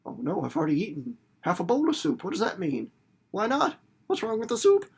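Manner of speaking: a hint of rising panic; climbing into a worried squeak; dinner guest fretting about the soup; worried diner. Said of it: "And you're like".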